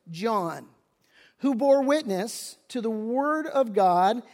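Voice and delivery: slow measured scripture reading. Acted. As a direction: read the verse slowly, with weight. Reads scripture aloud.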